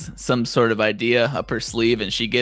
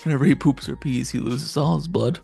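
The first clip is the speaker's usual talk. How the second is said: rattled off fast, higher; quick quote repeat; 3 semitones higher than usual. Retold or imitated. Repeating the show's quote for viewers, quick and amused. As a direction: toss the line off quickly as a fond recap. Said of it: "God, what a beautiful saying from the show".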